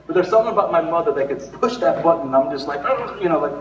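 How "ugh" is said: high mock groan of frustration; exasperated groan. Pastor when mother pushes his buttons, exasperated groan. Acts out being provoked by mother.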